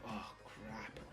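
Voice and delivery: a hint of panic; quiet dread. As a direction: mutter it under your breath. Hero facing the monster.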